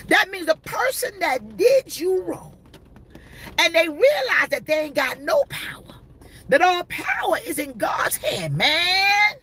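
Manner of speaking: fired-up preaching. Acted. Preacher to congregation about the one who did you wrong, crying preach. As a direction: preach it out with a cry in the voice, Pharaoh.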